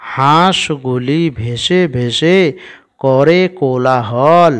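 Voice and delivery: drawn-out word-by-word reading; slow model reading. Shown as a demonstration. Teacher reads the finished sentence to pupils, slow and drawn out. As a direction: read slowly, stretching the vowels.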